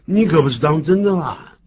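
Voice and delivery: high, loud incredulous question; astonished quoted reaction; acted disbelief. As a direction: exclaim it as a stunned reply. Quoting the disbelieving reply.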